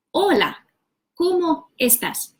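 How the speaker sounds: Hola, ¿cómo estás? said whole, ending on a falling tune; full phrase. Shown as a demonstration. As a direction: put the whole greeting together. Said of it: "put the words together".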